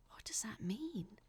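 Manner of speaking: tense, hushed, breathy question. Acted. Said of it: "Angela said tensely".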